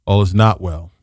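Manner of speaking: not pressed hard, low and grim; stress on not. Shown as a demonstration. Host corrects the crier, hitting "not". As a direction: lean on "not" in "All is not well". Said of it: "no, it's not all is well".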